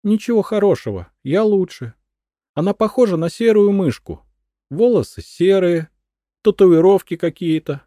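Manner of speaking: high, loud spiteful ranting; shrill jealous widow; jealous madwoman. A narrator's reading. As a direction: spit out the rival's flaws.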